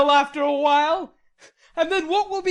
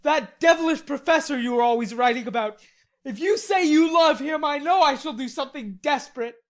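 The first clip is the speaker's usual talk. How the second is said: loud, high furious threat; jealous rage; 8 semitones higher, 9 dB louder than usual. A narrator's reading. Laurie raging.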